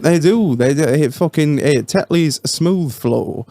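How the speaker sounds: put-on slow, wobbly stab at a Yorkshire accent; attempted Yorkshire accent. Podcaster showing slow northern talk, attempted Yorkshire accent. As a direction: draw it out in a loose Yorkshire accent. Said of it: "like you were from Yorkshire".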